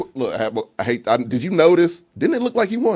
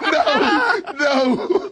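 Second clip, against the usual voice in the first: mock high protest; 9 semitones higher than usual. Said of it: "he goes like".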